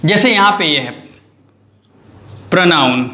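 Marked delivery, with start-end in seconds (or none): 2.5-3.1 "प्रोनाउन" with the R after P sounded; R pronounced. Shown as a demonstration. Teacher shows R before a vowel, "प्रोनाउन" with R sounded. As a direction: keep the R in "प्रोनाउन". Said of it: "आर आपको बोलना पड़ रहा है".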